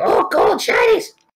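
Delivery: very high, shrill goblin creature voice. Showing a cover story for failed stealth checks: goblin voice. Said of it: "do the goblin voice".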